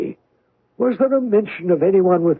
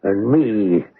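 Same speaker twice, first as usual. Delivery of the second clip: put-on cringing old sailor; 7 semitones lower, slower than usual. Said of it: "a cringing manner".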